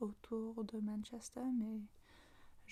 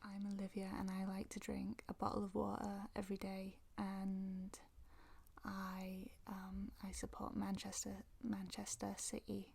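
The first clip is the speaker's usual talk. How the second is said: Mancunian English with dropped Ts; Manchester accent; 4 dB quieter than usual. Shown as a demonstration. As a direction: demonstrate Manchester speech, Ts swallowed. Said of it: "on ne les entend pas".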